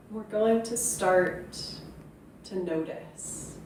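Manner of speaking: measured meditation phrases, each left to settle; guided meditation. Acted. Yoga teacher introducing a practice of noticing, guided meditation. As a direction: lead them in gradually, pausing after each phrase.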